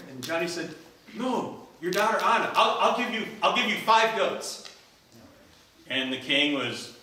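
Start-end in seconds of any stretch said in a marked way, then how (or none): 1.1-4.7 high, loud, eager offer; eager insisting. Acted. Johnny insists on Anna.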